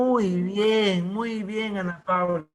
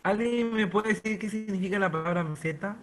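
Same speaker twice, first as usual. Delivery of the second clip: breaking up over a bad connection; crackly cordless phone line; choppy audio. Real, not acted. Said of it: "se escucha entrecortado".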